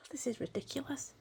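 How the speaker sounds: barely voiced, near tears after a sigh; a soft sigh as tears catch her off guard; choked-up sigh. Real, not acted. Moved by a friend's coloured page, breathes it out tearfully. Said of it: "I'm so sorry I've got emotional".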